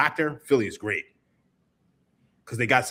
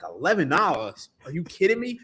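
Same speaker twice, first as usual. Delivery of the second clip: incredulous, rising to a high squeak; retold disbelief; 5 semitones higher than usual. Retelling the pretzel price to his co-host, mock outrage. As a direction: act stunned by the price. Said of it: "I was like".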